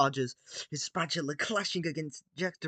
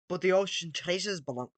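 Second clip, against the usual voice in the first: Jack Sparrow voice; 3 semitones higher than usual. Acted. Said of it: "I'm doing his voice wrong".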